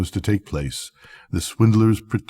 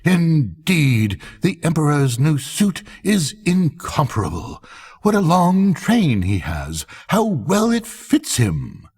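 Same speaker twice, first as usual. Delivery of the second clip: exclaiming crowd; 7 semitones higher than usual. A narrator's reading. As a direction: cry out in admiration.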